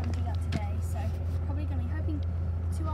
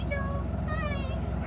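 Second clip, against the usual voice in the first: high dog greeting; 11 semitones higher, much slower than usual. Real, not acted.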